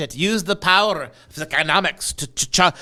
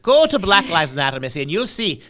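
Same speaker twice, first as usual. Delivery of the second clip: hammed-up Irish brogue, calling her Missy; mock Irish accent. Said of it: "Now I'm talking Irish".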